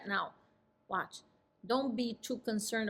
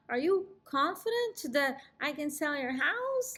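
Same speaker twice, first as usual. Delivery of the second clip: higher, odd unsure question; weird doubtful; 5 semitones higher than usual. Shown as a demonstration. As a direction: ask it awkwardly, full of doubt. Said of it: "Like, really weird and shaking my head no".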